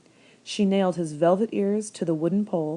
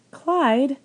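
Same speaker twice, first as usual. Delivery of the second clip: put-on much higher, louder old woman calling out; 8 semitones higher, 6 dB louder than usual. A narrator's reading. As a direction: holler it at the rabbit like a farm wife.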